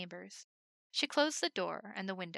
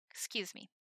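whispered excuse me; 7 dB quieter than usual. Acted. Polite aside before lifting him.

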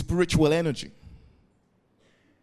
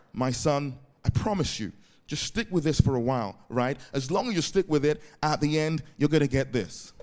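gentle fatherly voice; 3 semitones lower, 5 dB quieter than usual. Retold or imitated. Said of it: "daddy says".

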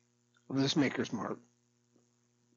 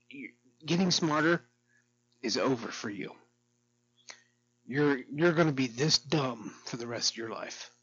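retold blunt insult. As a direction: lay it on her bluntly, a bit raised. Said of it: "I said to her the other day".

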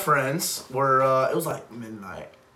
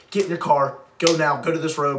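louder, mildly urgent mock yell; retold phone yell; 5 dB louder than usual. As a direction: imitate friends yelling down the phone. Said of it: "they're, like, screaming in the phone".

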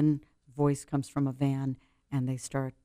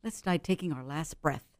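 put-on soft to her child; 4 dB quieter than usual. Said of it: "I say".

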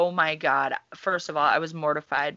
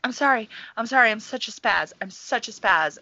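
flustered apology; 5 semitones higher than usual. Retold or imitated. Frantic apology at the counter.

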